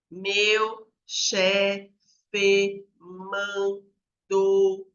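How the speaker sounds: very slow, drawn-out syllables with gaps between; syllabic adult reader. Acted. Adult stuck reading a document syllable by syllable, laboriously slow. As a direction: read haltingly, one held syllable at a time. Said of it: "ela vai ler".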